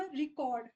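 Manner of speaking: रिकॉर्ड with the first syllable रि pushed hard; stress on RE. Shown as a demonstration. Teacher showing students the noun रिकॉर्ड with stress on री. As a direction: lean on री at the start of रिकॉर्ड. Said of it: "जिसमें मैंने री, अ, पे focus कर दिया".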